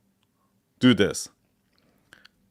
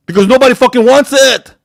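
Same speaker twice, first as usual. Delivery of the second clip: much higher and louder, yelling it out; furious shout; 10 semitones higher, 5 dB louder than usual. Real, not acted. Speaker ranting at wannabe founders, angry shout. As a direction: blow up at the crowd. Ranting at bad business ideas.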